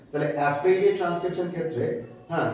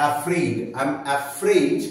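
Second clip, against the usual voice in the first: slow demo; much slower than usual. Shown as a demonstration. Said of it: "এই diphthong ড".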